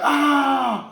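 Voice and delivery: mock martial-arts shout; war cry. Shown as a demonstration. Preacher showing how fighters learn to yell, war cry.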